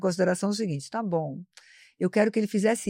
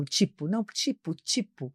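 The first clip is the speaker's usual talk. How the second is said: mock filler-word habit, trailing off softer; demonstrating verbal tics; 5 dB quieter than usual. Shown as a demonstration. Teacher shows a language vice to avoid, mock repeated filler. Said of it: "como vício de linguagem. Por exemplo".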